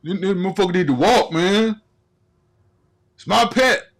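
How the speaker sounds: hammed-up owner insisting his cat must walk; defensive pet owner.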